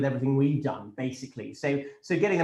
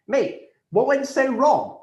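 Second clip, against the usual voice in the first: "mate, what went so wrong?" parroted higher and slow, "went" drawn out in mockery; mocking repeat; 8 semitones higher, 5 dB louder, much slower than usual. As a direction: throw her question back in a sneering, sing-song parody. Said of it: "Laura, what the fuck?".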